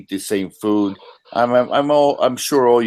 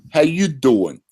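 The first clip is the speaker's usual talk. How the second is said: New York accent; 5 semitones higher, slower than usual. Shown as a demonstration. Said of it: "So when I say".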